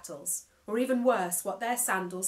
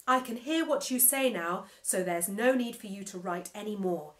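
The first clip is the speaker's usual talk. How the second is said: each syllable spelled out, fast and a little louder; over-articulate every word like a proud machine; enunciating every syllable; 6 dB louder than usual. Acted. Computer mouth showing off its new speech, over-enunciated. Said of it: "enunciating every single syllable".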